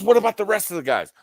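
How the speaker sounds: high, loud, incredulous question; high-pitched retold disbelief; mock alarm. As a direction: imitate a rattled coworker, voice way up.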